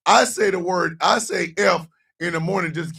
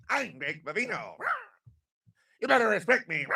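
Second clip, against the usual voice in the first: mock tough guy; 2 semitones higher, 6 dB quieter, faster than usual. Imitating Nick Vivino.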